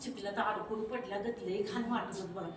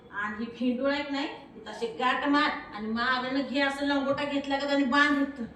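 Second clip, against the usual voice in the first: raised, louder rustic mother's voice; bossy mother laying down orders; village mother scolding; 4 dB louder than usual. Acted. Mother ties cloth on daughter, loud and bossy. Mother instructing child at home.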